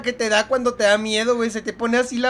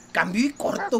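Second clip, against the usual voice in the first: mocking repeat. Shown as a demonstration. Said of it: "así inútil es mi personaje".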